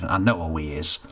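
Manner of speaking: mild spat reply. Acted. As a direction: snap back at him. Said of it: "spat Cedric".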